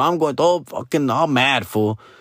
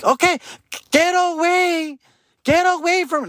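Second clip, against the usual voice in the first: shooing staff. Retold or imitated. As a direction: stretch it out like a nervous guard. Staff in biohazard suits shooing.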